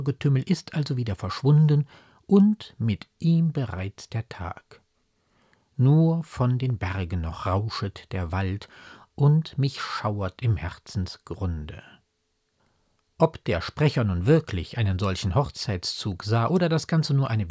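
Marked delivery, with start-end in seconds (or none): 5.8-11.8 measured verse reading, slowing to the end; poem recitation. Acted. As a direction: recite the closing verse, drawing out the last line.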